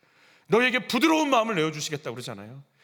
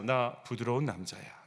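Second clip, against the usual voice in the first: lower, slower, softer voice; soft man; 9 semitones lower, 8 dB quieter, slower than usual. Shown as a demonstration. Preacher demonstrating a greeting to the neighbour, lower and softer. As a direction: croon it like a gentle guy. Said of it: "이렇게".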